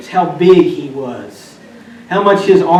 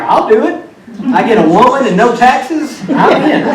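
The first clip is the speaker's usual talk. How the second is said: put-on eager kid brother; 5 semitones higher than usual. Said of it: "he's like".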